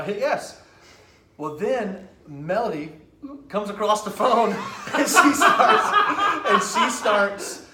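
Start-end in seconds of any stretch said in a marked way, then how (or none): 3.5-7.7 loud, high, cracking up mid-story; laughing. Real, not acted. Storyteller cracking up before imitating the jailed caller, laughing. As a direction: laugh through the words, drawing them out.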